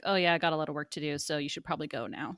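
rushed, dismissive excuse; retold brush-off. Filmmaker telling her to leave, quick brush-off. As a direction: imitate him hurrying her out, fast and offhand. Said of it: "basically telling her to leave".

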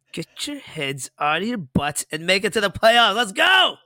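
fan's rallying shout at the Cubs. Real, not acted. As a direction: fire up the team from afar.

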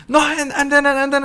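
high flustered stammer; mock flustered. Acting out the movie scene.

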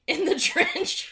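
drawn out slowly, savouring the joke; slow mock-solemn echo. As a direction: say it like a grand title, slowly. Mock-solemn echo of new name.

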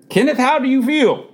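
high, wondering doctor's question; astonished questioning. A narrator's reading. Doctor checking on dying father, astonished. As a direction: ask it with pitch well up.

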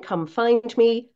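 ordinary talk, nothing marked

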